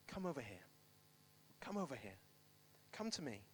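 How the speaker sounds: low, soft, spaced-out invitation; quiet summons. Acted. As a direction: beckon them over quietly and calmly. Prophet calmly summons crowd after failure.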